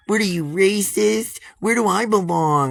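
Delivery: high, loud, shrill-edged mock outrage; mocking the neighbors. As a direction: parody their indignant accusation. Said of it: "they're like".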